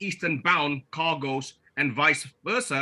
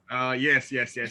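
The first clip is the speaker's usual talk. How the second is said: lower, hammed-up boss voice; Mister Carl acting voice; 5 semitones lower than usual. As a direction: play the chairman, lightly hammy. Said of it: "put on a acting voice and pretend to be Mister Carl".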